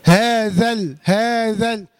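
"هذا ال" linked as hādhal; firm joined "هذا ال", alif silent; first sakin dropped. Shown as a demonstration. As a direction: say "هذا ال" with no long vowel before the lam. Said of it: "لا".

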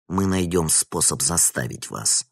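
usual speaking voice

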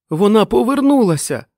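very high, loud yell; roaring. A narrator's reading. Dick yells to the men over motorbikes, roaring. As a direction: bellow over the engines. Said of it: "ревів Дік".

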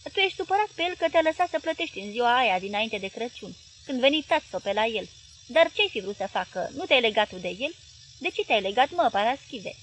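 probing wife. Acted. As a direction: needle him with questions.

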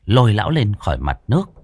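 ordinary delivery, nothing marked

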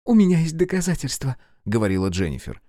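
high, rushing female voice; arrested woman bargaining with the agent, eager; eager young woman. A narrator's reading. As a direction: sell your evidence fast. Jennifer offers evidence.

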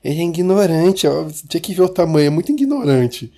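lightly voiced mocking woman; a hint of a whiny woman, mock; man doing a woman's voice. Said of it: "eu fiquei imitando a mulher".

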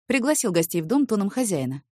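usual speaking voice

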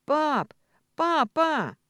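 громкий высокий зов; позвать отца издалека во весь голос; крик. Acted. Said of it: "и крикнула". (дочь громко зовёт отца из-за угла дома)

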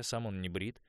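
plain reading voice

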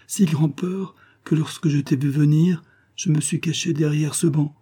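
a hint of a bashful young girl; young girl's voice. Jane shyly explaining to Elim why she pushed him away, lightly voiced.

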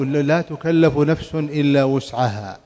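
slow, chanted recitation of the verse; Quranic recitation. Acted. Teacher reciting the verse to his students, slow and chanted. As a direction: intone the verse slowly, half sung.

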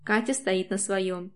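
ordinary delivery

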